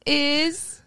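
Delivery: mock whining. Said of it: "And so I said".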